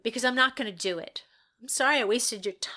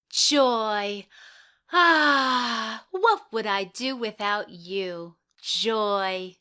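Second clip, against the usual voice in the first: louder, earnest dramatic read; hammed-up actress delivering a line; audition line reading; 5 dB louder, much slower than usual. Auditioning actress reading her line to the panel, overdone.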